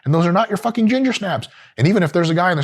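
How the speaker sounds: high, indignant yelps; high-pitched fake shock; mock outrage. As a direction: squeal it out in mock disbelief.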